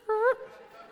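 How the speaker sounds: short, high newborn squeak; high little baby sound; imitated baby noise. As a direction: mimic a baby's tiny response. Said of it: "they smile with just half their lips".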